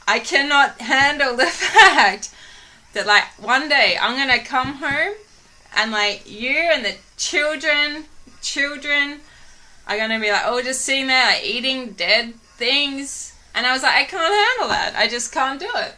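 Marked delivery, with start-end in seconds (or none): 0.1-13.3 half-laugh a dramatic complaint; laughing mock despair. Telling her girlfriend she can't handle meat at home, laughing. 13.9-15.9 high, half-laughing wail; mock anguish. Insisting to her girlfriend she can't do it, mock anguished.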